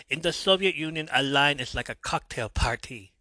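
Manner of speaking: badly faked Russian accent; horrible Soviet accent. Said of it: "That's a horrible Soviet Union accent".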